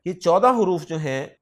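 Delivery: ordinary delivery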